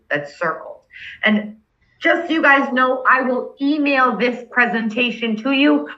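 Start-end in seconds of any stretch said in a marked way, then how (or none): 2.0-5.9 talking through hiccups; speaking with the hiccups. Real, not acted. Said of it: "I've got the hiccups".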